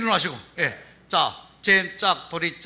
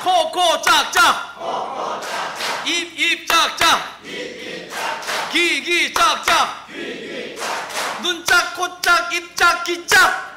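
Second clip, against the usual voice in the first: kindergarten teacher voice; 10 semitones higher, slower than usual. Acted. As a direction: call out the clapping game like a kids' teacher. Leads a children's clapping game.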